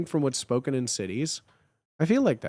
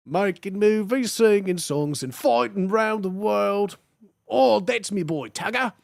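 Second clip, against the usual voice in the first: higher, rowdy mock-Australian; hammed-up Australian accent; Russell Crowe; 5 semitones higher than usual. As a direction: belt out a cartoonish Aussie tough guy. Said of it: "Russell Crowe interviews always made me laugh".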